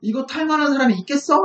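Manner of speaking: mocking challenge. Envoy doubting they have any horsemen, mocking. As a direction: jeer at their lack of riders. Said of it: "막 조롱하는 거예요".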